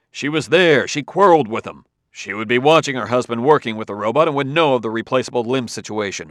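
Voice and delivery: Adelbish accusing. Acted. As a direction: press the accusation hard at the Earthman.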